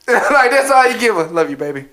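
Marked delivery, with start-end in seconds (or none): 1.2-1.9 lowered, token affection; mock sweet talk. Idle boyfriend gives her only words of love, mock tender. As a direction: play the boyfriend cooing low.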